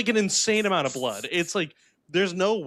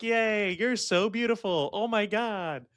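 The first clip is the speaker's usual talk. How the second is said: higher-pitched put-on adoring cheer; mock gushing; 4 semitones higher than usual. Audience cheers the obvious monster, mock gushing. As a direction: imitate a crowd fawning over a star.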